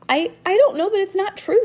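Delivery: high, loud, stammering protest; fighting back tears. A narrator's reading. Girl denying a lice rumor, upset and near tears. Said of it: "Lucy sniffed and fought back tears".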